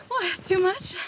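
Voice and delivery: ordinary talk, nothing marked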